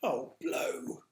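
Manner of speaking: whispered, disappointed groan. Acted. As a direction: sigh it out, deflated. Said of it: "groaned George".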